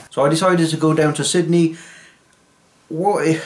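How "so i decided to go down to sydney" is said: failed Australian attempt. Shown as a demonstration. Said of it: "this is not an Australian accent".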